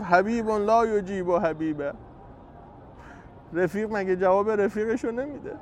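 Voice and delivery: a loving complaint to a friend, slowed; tender reproach. Acted. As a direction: gently chide a beloved friend who won't answer. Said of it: "با لحن محبت، گلایه".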